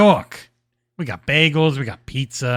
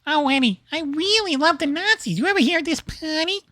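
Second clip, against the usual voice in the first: put-on much higher hammy Boston accent; 9 semitones higher than usual. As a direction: go full Boston character. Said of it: "I'm doing a Boston accent".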